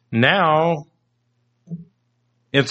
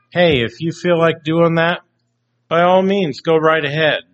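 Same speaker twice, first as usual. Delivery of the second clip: mock permissive; 4 semitones higher than usual. Mocking the permissive world.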